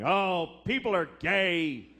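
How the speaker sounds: slow, drawn-out mock lament; overdone wail of complaint; mock distress. Person at home upset about gay people, mock distress. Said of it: "in their homes going".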